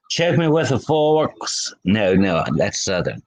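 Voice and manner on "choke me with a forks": mock valley girl. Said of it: "I don't know how Valley girls talked".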